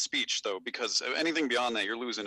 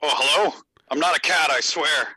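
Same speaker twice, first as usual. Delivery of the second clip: radio voice; 3 semitones higher, 7 dB louder than usual. Real, not acted. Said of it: "you sound like the voices in the".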